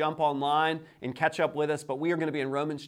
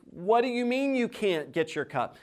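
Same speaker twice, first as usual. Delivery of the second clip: higher-pitched exasperated questioning; acted parent's disbelief, pitch jumping up; frustrated father; 7 semitones higher than usual. Father to daughter who refused, exasperated. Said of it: "I'm frustrated".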